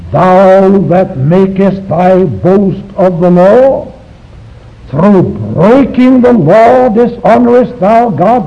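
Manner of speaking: slow, pointed rhetorical challenge; as Paul meant it. Shown as a demonstration. Bible teacher recites Paul to the Jews as a pointed rhetorical reproach. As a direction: recite it like an accusing question. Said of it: "I'll recite it the way he meant it".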